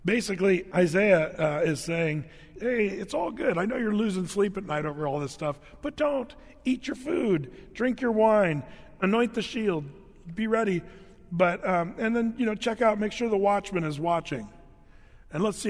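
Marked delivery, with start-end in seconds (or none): 2.6-10.8 breezy mock reassurance, pitched higher; sarcastic paraphrase. Isaiah mocking the complacent princes, sarcastic and breezy. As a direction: toss it off like it's all fine. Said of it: "this is, um, sarcasm".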